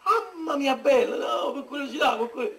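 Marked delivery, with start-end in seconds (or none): 0.0-1.1 in ice cold water. Real, not acted. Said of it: "c'è ghiaccio proprio".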